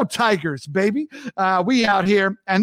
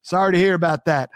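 mock sympathetic jab; New York sass. New Yorker teasing someone from Jersey, mild sarcasm. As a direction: tease the Jersey guest. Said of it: "the last phrase".

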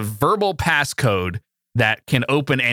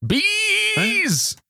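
screeching "Bees!" far higher; shouted meme. Pretend. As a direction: yell it like the meme.

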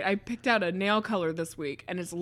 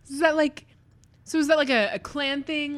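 doctor voice; 8 semitones higher, 4 dB louder than usual. Acted. Doctor questions the names.

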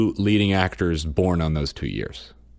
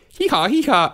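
donkey bray; 14 semitones higher, 4 dB louder than usual. Retold or imitated. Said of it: "you could only say hee haw".

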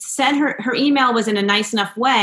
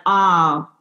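laughing refusal; 3 dB louder, much slower than usual. Retold or imitated. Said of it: "And I was like".

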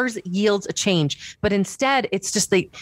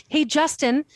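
higher, heated mock reporter question, slowing on tell me why; getting mad; 8 semitones higher than usual. Commentator playing a reporter grilling Justin, mock heated. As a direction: grill him like an exasperated reporter. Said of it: "Oh, no, I'm getting mad".

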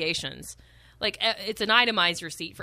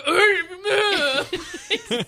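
high wordless wail of frustration; mad mock wail; 8 semitones higher, 4 dB louder than usual. Retelling the wait for plates, mad mock wail. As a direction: imitate a furious meltdown with a laugh. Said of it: "so mad".

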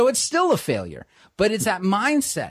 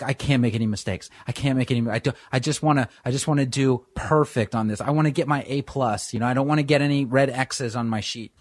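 much lower, fast, anxious rushing; scared student; 5 semitones lower, faster than usual. Retold or imitated. Scared pupil fretting about grades, low and fast, anxious. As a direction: gabble the worries like a nervous pupil. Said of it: "they're like".

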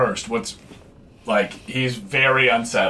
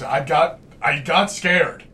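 scared; 7 semitones higher, slower than usual. Acted. Admitting fear after nearly dying.

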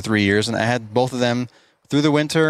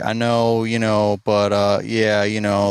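imitating someone fumbling through a reply; mock hesitant stumble, padded with fillers; stumbling for words; slower than usual. Employee quitting to his boss, stumbling around his words. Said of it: "stumbling around his words".

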